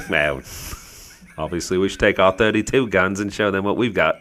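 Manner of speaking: lightly voiced British commander; understated British captain's accent. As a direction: answer as an unruffled British officer. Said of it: "There's a couple different captains".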